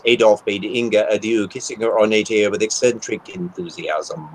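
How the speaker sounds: lightly done radio announcer. Shown as a demonstration. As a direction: read it like a smooth radio host. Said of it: "I will put on my radio voice".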